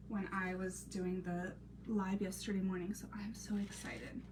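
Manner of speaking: hushed unvoiced aside; whispered excitement over trinkets. Real, not acted. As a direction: whisper it happily. Whispered while crafting.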